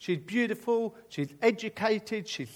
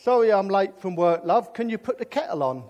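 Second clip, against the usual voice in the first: mock translation; 6 dB louder than usual.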